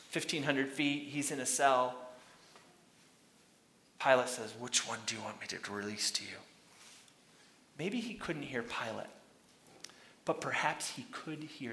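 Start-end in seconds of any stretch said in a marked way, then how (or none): 4.6-6.4 low, soft, quick mumble; muttered. Acted. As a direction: mutter it under your breath as Pilate. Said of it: "Pilate mutters something".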